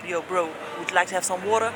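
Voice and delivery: a light imitation of a casual American accent, fast; imitating a husband's American bro accent; mock American accent. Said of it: "his very American accent".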